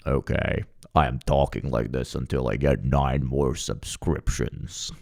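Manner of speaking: hint of a fake deepened voice; mock puberty voice. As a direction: pretend his voice just dropped. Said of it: "I'm gonna talk like this from now on".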